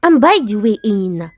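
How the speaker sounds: demanding wife. Acted.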